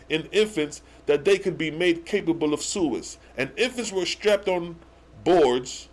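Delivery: punched, deliberate reading aloud; emphatic scripture reading. Acted. Host rereading the verse as evidence, emphatic scripture reading. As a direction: read the verse out as proof.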